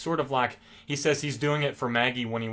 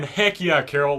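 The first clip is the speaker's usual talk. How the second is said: cheering; 5 dB louder than usual. Retold or imitated. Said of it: "I'm screaming".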